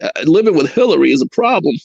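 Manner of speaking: lightly voiced halting politician impression; Bill Clinton. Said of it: "I used to impersonate, uh, Bill Clinton".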